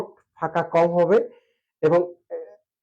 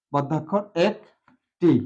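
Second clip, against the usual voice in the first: slow explanation; much slower than usual. Shown as a demonstration.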